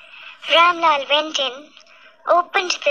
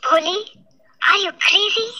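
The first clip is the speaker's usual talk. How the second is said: higher, alarmed outburst at his daughter; shouting father; 4 semitones higher, faster than usual. A narrator's reading. Father yells at Bholi refusing the groom, shocked shout. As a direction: cry out her name in disbelief. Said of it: "shouted Ramlal".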